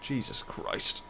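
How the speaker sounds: slow, breathless whisper after a fly; just inhaled a fly. Real, not acted. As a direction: gasp it out, still choking. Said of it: "I just inhaled a fly through my nose".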